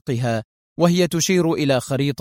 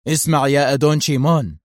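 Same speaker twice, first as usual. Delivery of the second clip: exclaiming. Acted. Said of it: "هتف غراهام".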